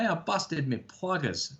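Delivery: slow, lightly put-on Australian accent; near-Cockney Australian impression. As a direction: imitate a casual Aussie, drawn out. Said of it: "it's almost a Cockney accent".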